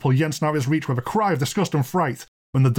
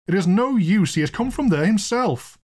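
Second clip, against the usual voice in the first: high, despairing protest; wailing; 8 semitones higher than usual. Acted. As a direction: wail it like a helpless landlord. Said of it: "wailed the landlord".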